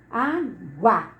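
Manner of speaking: "água" split as á-gua; teacher splitting "água" into syllables for the class; divided into syllables. Shown as a demonstration. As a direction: say "água" in two separate syllables. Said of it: "Se fôssemos dividir".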